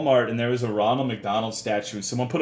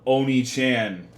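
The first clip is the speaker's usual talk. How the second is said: mock Japanese; 4 dB louder, slower than usual. Shown as a demonstration. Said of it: "how they say it in fucking Japanese".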